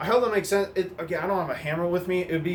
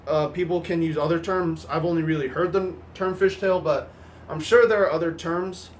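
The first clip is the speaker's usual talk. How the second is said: stuffy nasal voice from a cold; nasally voice. Real, not acted. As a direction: talk through a blocked nose. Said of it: "excuse my nasally voice".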